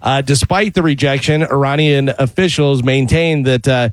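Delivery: measured newscast delivery; news read. Acted. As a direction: read it as a radio news bulletin. Reads the news bulletin.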